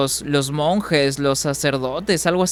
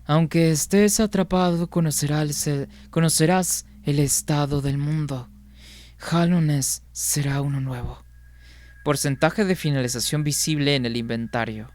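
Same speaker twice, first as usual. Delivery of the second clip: documentary narrator; 4 dB quieter than usual. Shown as a demonstration. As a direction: narrate it like an epic game intro. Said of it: "esta voz sería mi voz como que de documental".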